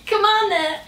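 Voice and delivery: high strained coaxing, pleading with the jeans; straining plea. Real, not acted. Tugging tight jeans up, straining high coaxing. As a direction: squeak it out while tugging. Forcing jeans over her bum.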